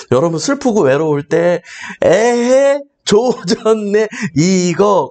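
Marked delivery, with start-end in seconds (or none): 2.0-5.1 mother's dismay meme. Retold or imitated. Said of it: "검색해보세요".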